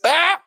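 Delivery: short, high imitated burst of laughter; mock gleeful laugh. Brother-in-law laughing at the bad news, imitated high cackle. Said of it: "he just smiled, laughed".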